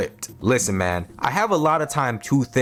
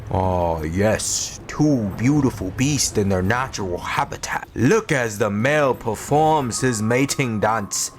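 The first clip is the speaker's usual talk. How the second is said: nature documentary narrator; 2 semitones lower than usual. Acted. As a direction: narrate like an Animal Planet host. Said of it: "like I was a narrator on Animal Planet".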